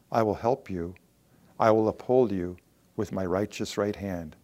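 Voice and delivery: measured verse with long pauses between phrases; scripture reading. Acted. Preacher reading Isaiah to the fearful, scripture reading. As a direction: read it out solemnly, phrase by phrase.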